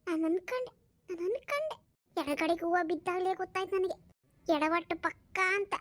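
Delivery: lightly acted exasperated wife; scolding wife. Wife rebukes her useless husband, exasperated. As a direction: nag him with weary exasperation.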